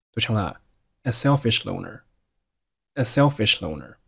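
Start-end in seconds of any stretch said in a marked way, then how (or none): 1.0-4.0 "a selfish loner" with "as" losing its z into the s of "selfish"; silent z. Shown as a demonstration. Teacher showing learners the merged consonant, z dropped before "selfish". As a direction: keep only the s of "selfish", no z before it. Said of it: "咱们只保留后面的s就好了".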